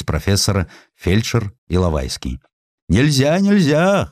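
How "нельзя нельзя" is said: high rising cry of refusal; two doormen shouting no at the hussar; shouting together. A narrator's reading. Doormen blocking the door, shouting. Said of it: "хором закричали они".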